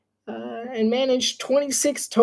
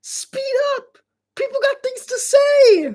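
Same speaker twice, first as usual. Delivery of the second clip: mock high-pitched urging, slow then rising; hammed-up high voice telling partner to speed up; impatient retort; slower than usual. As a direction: squeak it like an exasperated co-caster. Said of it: "I'm like".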